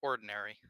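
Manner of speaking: ORDINARY with all its syllables; clearly pronounced ORDINARY. Shown as a demonstration. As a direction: repeat ORDINARY in full to be understood. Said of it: "I cut out, probably".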